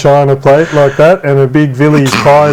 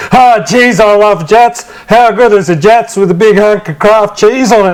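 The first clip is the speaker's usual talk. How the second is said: higher, hammed-up ad voice; mock Scotty Cam; 5 semitones higher than usual. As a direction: gush over the snack like a cheesy ad. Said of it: "and he goes".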